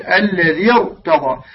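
slow "الذي ارتضى", linked into a thick "rta"; heavy ra. Shown as a demonstration. Teacher gives a Quranic example of incidental kasra, heavy ra. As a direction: slowly join "الذي ارتضى", keeping the ra heavy. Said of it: "هكذا تفخمها".

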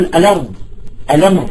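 "الأرض" and "الأمر" as a-lard, a-lamr; no glottal stop after the l in "الأرض", "الأمر"; Maghrebi-style linking in "الأرض" and "الأمر"; transferred vowel. Shown as a demonstration. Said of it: "إخواني اللي بالمغرب العربي".

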